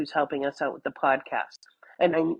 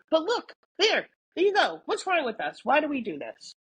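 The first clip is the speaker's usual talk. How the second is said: high, lilting put-on voice of the friend; mock friend quote; 7 semitones higher than usual. Quoting her best friend's text in a raised mocking voice. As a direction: play the friend wailing about her own problem.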